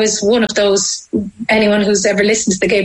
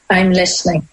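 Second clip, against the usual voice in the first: a touch of her mum's gentle softness; lightly voiced, tender mum; 2 semitones lower than usual. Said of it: "she just very gently went".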